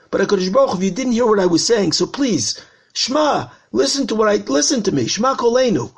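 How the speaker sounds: mildly urgent begging to be heard; pleading. Acted. Congregant begging God to listen after praying, pleading.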